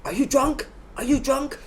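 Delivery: very high-pitched mock accusation; accusing stranger. Stranger accusing his train neighbour, high-pitched mimicry. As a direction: imitate an incredulous accuser, voice shooting up.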